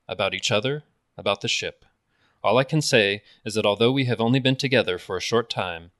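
a hint of a starship captain's measured speech; Picard impression. Captain rallying his doubtful crew, mild Picard voice. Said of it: "So here goes. ... I don't know if this is anything like a good Picard".

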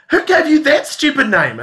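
hammed-up indignant shriek; mother furious at the name Rangi; outraged mum.

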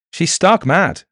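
high, agitated protest; a nervous denial, pitched well up. A narrator's reading. Reese dismisses his accuser as mad, nervously. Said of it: "said Arthur Reese nervously".

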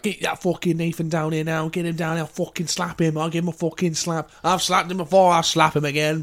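threatening bloke. Retold or imitated. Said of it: "the bloke of the couple was like".

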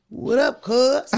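a hint of an L A street accent; mock L A greeting. Retelling the L A walk-up, light L A accent. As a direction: toss it off like an L A guy walking up. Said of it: "We talked about that, like, that walk".

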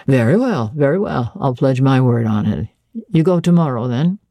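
a hint of a gentleman employer; Rochester. Master agreeing to Jane's terms, lightly voiced gentleman.

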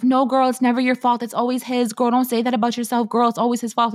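lightly put-on voice of an insistent friend; mock reassuring friend. Friends telling her it's never her fault, mock insistence. Voicing friends who push back on accountability.

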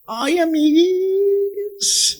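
a lightly voiced wistful chuntara, sighing over old photos; gossipy friend voice. Chuntara telling her friend about the ex, lightly sighing. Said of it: "le dice la chuntara a la amiga".

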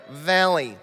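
Valley in a Midwestern accent; Valley in a Michigan accent. Shown as a demonstration. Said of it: "That's how they say it in the Midwest".

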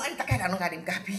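fast, laughing through the line; laughing requote. Real, not acted. Guifei laughing as she repeats the client's coffee line. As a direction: quote it again, cracking up.

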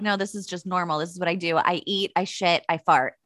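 low, soft, unbothered dog voice; matter-of-fact dog. Acted. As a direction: lightly voice a nonchalant dog. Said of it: "The dog's just like".

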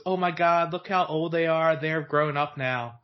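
slow, marveling grandma voice; gushing grandma. Retold or imitated. Grandma gushes over the Harry Potter actors, slow and marveling. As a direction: draw it out in awe. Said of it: "She goes".

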